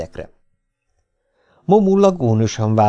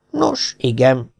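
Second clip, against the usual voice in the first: hesitant; 2 semitones higher, much slower than usual. A narrator's reading. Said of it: "felelte Gast a fejét vakargatva".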